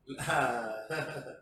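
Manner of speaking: low, short laugh. Real, not acted. Teacher shrugging off angry people, low laugh.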